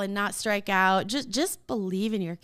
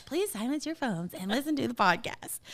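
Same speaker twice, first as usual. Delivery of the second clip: cue card announcement; 2 semitones higher, 3 dB quieter than usual. Pretend. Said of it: "a little cue card that says".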